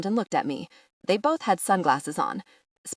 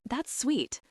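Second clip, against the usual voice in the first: genuinely pleased; 7 semitones higher, 4 dB quieter than usual. A narrator's reading. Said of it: "genuinely pleased".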